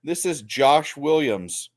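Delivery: put-on slow Hispanic accent call-center voice. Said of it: "Hispanic accent".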